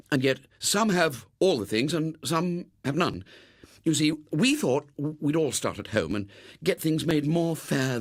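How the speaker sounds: put-on a boy pressing his case; eager pleading boy. Robert pleads his cause.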